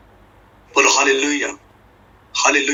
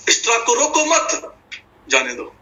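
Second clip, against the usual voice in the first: attach मत to रोको, pause before जाने दो; pause after मत; 9 semitones higher than usual. Acted. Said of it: "कई ऐसे समझेंगे".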